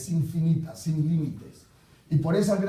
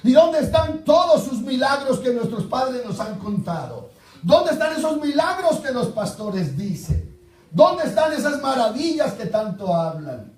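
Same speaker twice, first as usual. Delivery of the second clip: angry complaint; 5 semitones higher, 4 dB louder than usual. Acted. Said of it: "Gedeón lo está haciendo con ira".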